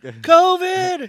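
high mock scream of the word covid. Co-host mock screaming about a customer, high shriek. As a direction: shriek it like a panicked shopper. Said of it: "You should have screamed covid".

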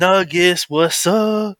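put-on bragging kid.

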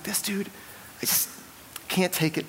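whispered under the breath, at the end of your rope; exasperated whisper. Retold or imitated. Pastor recalling how fed up he was with the guy, whispered.

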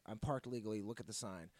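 lightly voiced low, soft-spoken driver; imitating the man. Driver answering the man at his window, lightly imitated. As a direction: mimic him, low and quiet. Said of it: "He talks like this".

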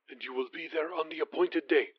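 a prince on the phone, quiet and commanding; commanding near-whisper. Acted. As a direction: give the order in a breath, quiet and firm. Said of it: "just above a whisper, though clearly commanding".

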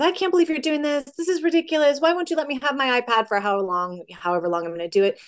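a mild hint of a daughter complaining about her iPad; upset daughter. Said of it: "And she says".

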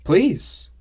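loud, high eager please. Acted. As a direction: jump at the offer. Eager acceptance of ale.

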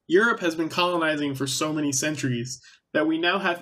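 talking while spinning in chair; spinning in office chair. Real, not acted. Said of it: "my voice is getting weirdly fluctuated".

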